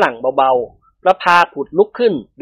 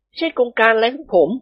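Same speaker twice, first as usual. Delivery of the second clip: higher-pitched character disclaimer; evasive first man; 6 semitones higher than usual. A narrator's reading. Phon passes the blame to Dilek, higher evasive voice. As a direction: disown it in a raised male voice.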